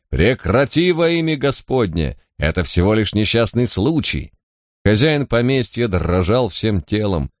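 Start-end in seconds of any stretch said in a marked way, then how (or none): 0.1-4.3 cry out. Acted. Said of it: "вскричал Хоббей".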